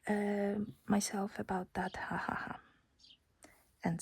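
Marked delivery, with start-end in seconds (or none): 0.1-2.6 sarcastic inner voice. Retold or imitated. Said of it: "my conversation with my own brain".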